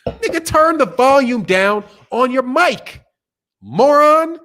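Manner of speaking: high, loud exasperated outburst; loud rebuke. Acted. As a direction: drop the softness and holler it at them. Drops soft voice, yells at listeners.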